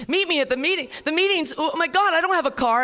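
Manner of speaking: high, loud whining echo; mock-panicked newcomer repeating back; whiny newcomer. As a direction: throw it up high like a fretful newcomer.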